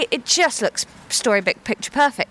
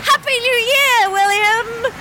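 shouted greeting; 12 semitones higher, 4 dB louder than usual. Pretend.

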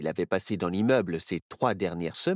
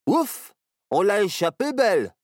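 relieved; 9 semitones higher, 6 dB louder than usual. A narrator's reading. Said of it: "dit Barnabé".

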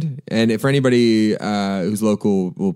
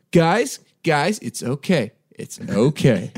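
calming; 6 semitones higher, slower than usual. Retold or imitated. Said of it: "I sort of go".

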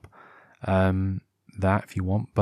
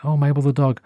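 mild surprise; 4 semitones higher than usual. Retold or imitated. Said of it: "and I was like".

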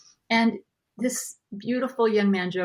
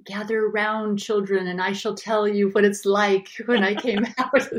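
grandpa storytelling; 2 semitones higher, 4 dB louder than usual. Shown as a demonstration. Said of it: "I will be doing this voice of".

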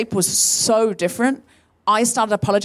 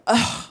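short dismissive "ugh"; imitated disgusted grunt; 3 semitones higher than usual. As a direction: mimic an exasperated huff. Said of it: "then he just went".

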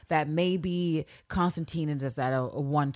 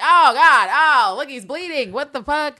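mock shock; 11 semitones higher, 13 dB louder than usual. Room reacts to dead body.

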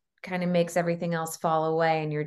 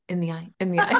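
laughing; faster than usual. Real, not acted. Joking about toasting superstition.

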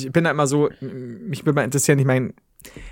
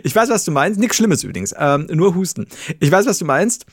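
cracking up mid-line. Real, not acted. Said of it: "ich muss grad lachen".

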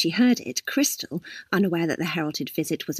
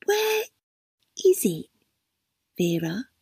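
gentle; 3 semitones higher than usual. A narrator's reading. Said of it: "as gently as she could".

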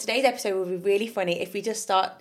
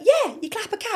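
mock Scottish friends; 12 semitones higher than usual. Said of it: "they went".

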